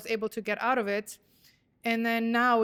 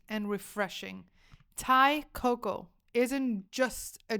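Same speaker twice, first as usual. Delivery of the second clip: ad read. Acted. Sponsor read for Thai Coco.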